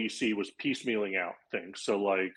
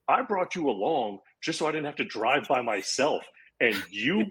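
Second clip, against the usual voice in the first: jealous disbelief; 3 semitones higher than usual. Retold or imitated. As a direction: act out indignation at a friend. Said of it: "continued to be jealous".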